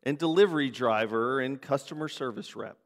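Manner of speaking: measured congregational prayer with pauses. Real, not acted. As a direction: pray earnestly, letting each petition settle. Leads a spoken prayer.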